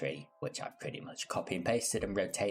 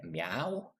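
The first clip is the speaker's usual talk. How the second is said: cat meow. Pretend. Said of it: "but I'll say it".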